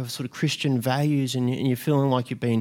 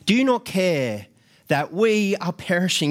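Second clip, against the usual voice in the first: frantic shout; 6 semitones higher than usual. Retold or imitated. Disciples in the sinking boat shouting at Jesus, frantic. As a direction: yell it over the storm. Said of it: "they would have been shouting and screaming".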